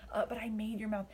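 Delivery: whispered gentle reassurance; a hushed, tender reminder; sincere, not sarcastic. Retold or imitated. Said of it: "God didn't say it sarcastically".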